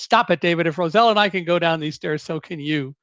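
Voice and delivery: mildly voiced teacher telling off a student; a restrained retelling of a stern teacher's yell; teacher's scolding voice. Teacher orders panicking David down the stairs, lightly imitated scolding. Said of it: "my best voice for yelling at students".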